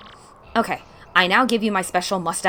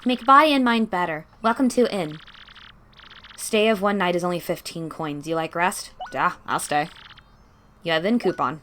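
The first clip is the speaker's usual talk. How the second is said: innkeeper; 4 dB louder than usual. Acted. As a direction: greet the guest brightly. Voices the innkeeper NPC.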